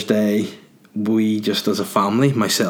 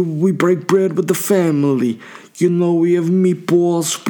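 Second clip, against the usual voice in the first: Italian mafia matriarch; 3 semitones higher than usual. Pretend. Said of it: "I'm going more Italian as I go on".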